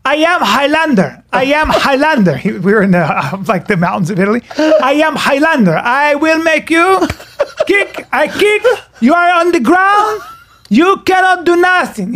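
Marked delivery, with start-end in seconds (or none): 0.1-2.4 higher-pitched mock Italian accent; bad Italian accent. Man retelling his street fight in Italy, mock Italian accent. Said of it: "in his bad Italian accent". 4.6-12.1 high, halting mock Italian accent; hammed-up Italian accent, pitched well up; bad Italian accent. Imitating his opponent threatening him mid-fight, bad Italian accent. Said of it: "in his bad Italian accent".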